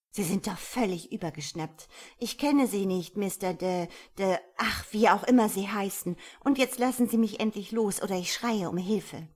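loud indignant tirade, building in force; angry outburst. A narrator's reading. Woman threatens to scream for help, angry. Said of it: "Wütend blickte sie ihn an".

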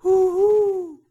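high, loud questioning hoot; a loud owl's hoo-hoo rising at the end; owl call. A narrator's reading. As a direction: hoot like an owl asking something. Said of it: "klang es fragend".

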